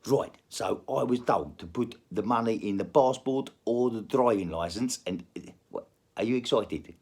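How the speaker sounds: put-on South African accent; comic South African accent. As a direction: tell it as a South African storyteller. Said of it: "let's go back to South African".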